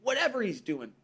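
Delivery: high, hushed then rising awe; awed admiration. Retold or imitated. People admiring someone's hard work, awed. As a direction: marvel at him, building up. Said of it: "look at each other and go".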